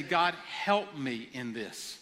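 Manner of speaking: slow, earnest prayer for help; a model prayer the congregation can repeat. Shown as a demonstration. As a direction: pray it gently, letting each plea land. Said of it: "And I just want to say".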